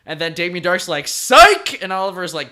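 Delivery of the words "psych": high, very loud taunt; mock gotcha shout. Villain springs a gotcha, retold.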